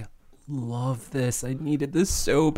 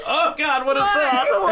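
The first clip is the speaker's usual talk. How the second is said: mock-disgusted, far higher and louder; disgusted shriek; 4 dB louder than usual. Imitating a character smelling durian, with a high disgusted squeal. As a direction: recoil in horror at the smell. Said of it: "She's, like, cracking open and".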